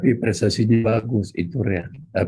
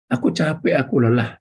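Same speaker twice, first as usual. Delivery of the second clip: whining shout; 3 semitones higher than usual. Retold or imitated. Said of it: "mulut yang suka berteriak".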